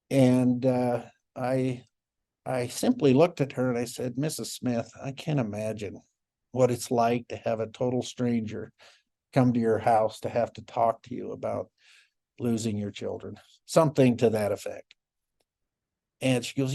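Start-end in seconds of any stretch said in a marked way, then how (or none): 4.2-13.4 soft empathetic. Retold or imitated. Calm empathy toward angry parent.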